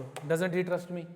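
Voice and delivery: "Doesn't he trust me?" stretched out very slowly, word by word; "Doesn't he trust me?" drawn out slowly for the student to follow. Shown as a demonstration. Teacher repeats the question to a student, very slowly. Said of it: "तुम थोड़ी हो दीपिका हो तुम तो।".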